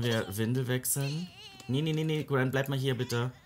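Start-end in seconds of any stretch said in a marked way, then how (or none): 1.7-3.3 urgent call. Real, not acted. Stopping Gwen from walking off.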